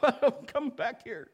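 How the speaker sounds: high, slow teasing wife voice; lightly mimicking his wife calling him back; wife reining him in. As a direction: pull him back like a kite string. Wife pulling kite husband back.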